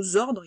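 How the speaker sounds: zordre with a Z sound at the start; wrong liaison word. Shown as a demonstration. Teacher showing a wrong word to a pupil, clearly. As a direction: say zordre as if it began with Z. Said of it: "il n'existe pas".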